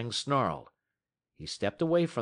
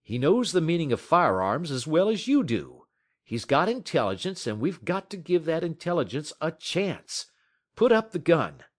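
higher, louder urgent persuasion; urging Scott; 7 semitones higher, 6 dB louder than usual. Acted. Scott urging Matt to put up the gun, higher and louder.

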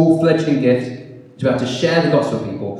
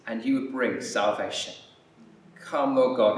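leading prayer. Acted. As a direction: pray aloud for the church, fervent then hushed. Leads the congregation in prayer.

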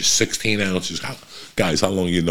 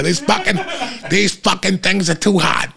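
higher, laughing mock complaint; laughing cursing woman; 12 semitones higher than usual. Woman behind him griping about the heat, laughing. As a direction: laugh through the swearing. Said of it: "another woman behind me was just laying expletives out".

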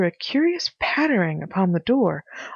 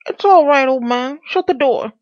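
high, loud character voice; agitated Pycraft; 7 semitones higher, 6 dB louder than usual. Acted. Pycraft to his visitor from the ceiling, high and urgent. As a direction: call it down urgently, pitched up.

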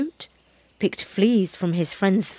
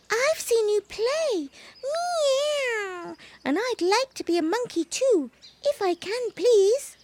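very high, soft kitten plea; a little cat begging sweetly; pleading kitten; 14 semitones higher, 4 dB quieter than usual. A narrator's reading. Baby cat asks the monkey to let him join, high and soft. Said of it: "said Baby Bush Cat".

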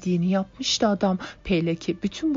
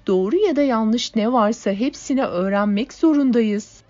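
impassioned speech; 4 semitones higher, 5 dB louder than usual. A narrator's reading. Natasha addressing the comrades.

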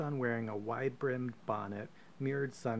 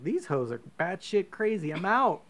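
1 panicked bail-out; 8 semitones higher, 7 dB louder than usual. Retold or imitated. Sisters grab knives, fleeing.

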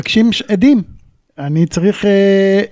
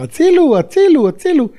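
higher mock yell of help over the radio; retold cry for help; 9 semitones higher than usual. Veteran retells calling for help on the radio, mild mock yell. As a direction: call for help, a touch raised. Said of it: "ואני צועק בקשר".

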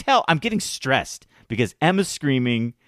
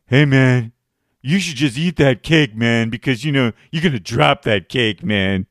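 loud needling bro voice; mocking dude voice; 4 dB louder than usual. Smug guy badgering a stranger about his cake, loud. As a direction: badger him with fake advice. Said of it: "And so he comes".

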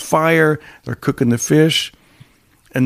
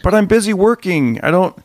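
higher-pitched mock protest; imitated boy; 6 semitones higher than usual. Boy to father about chores, mildly protesting. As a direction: plead busy, in a lightly voiced boy. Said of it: "And he's like".

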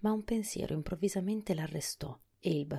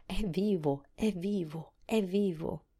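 higher, excited, chanted repetition; enraptured; 3 semitones higher, 3 dB louder, slower than usual. A narrator's reading. Old Mombi dancing, rapt with joy, excited chant. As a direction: repeat it over and over, carried away with delight. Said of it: "continuava a ripetere rapita".

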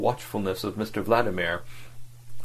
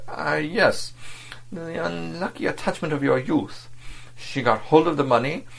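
scornful diplomat; 8 semitones higher than usual. A narrator's reading. Diplomat deriding the fat anarchist, scornful. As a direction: belittle him with contempt. Vladimir taunts Verloc.

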